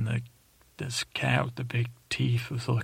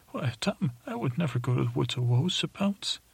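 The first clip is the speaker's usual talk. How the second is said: higher, fast, shocked refusal; high indignant voice; 3 semitones higher than usual. Acted. Teller voices himself refusing Sir Pounce's trip, high and quick. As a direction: refuse quickly, pitch up in alarm.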